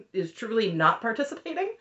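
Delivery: usual speaking voice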